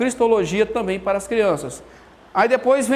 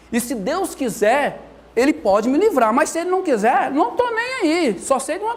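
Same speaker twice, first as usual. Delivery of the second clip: put-on defiant young man; 5 semitones higher than usual. Youth to the king, defiantly unbothered. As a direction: voice climbing much higher into carefree defiance.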